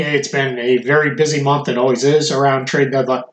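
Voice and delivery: talking through hiccups; words broken by small hiccups. Real, not acted. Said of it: "Excuse me, I have the hiccups".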